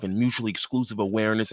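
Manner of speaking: ordinary talk, nothing marked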